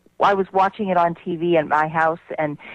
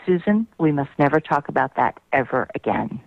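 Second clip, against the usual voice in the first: very calm; 4 semitones lower than usual. Retold or imitated. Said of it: "he very calmly".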